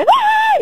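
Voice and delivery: high shrill yelp of fright; startled shriek. Retold or imitated. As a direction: jump and squeal "ว้าย". Startled by husband behind her.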